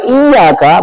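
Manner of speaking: "iyyaka" with the y held double, iy-yaka; doubled y. Shown as a demonstration. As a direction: press firmly on the double y of "iyyaka". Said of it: "bermakna hanya kepadamu".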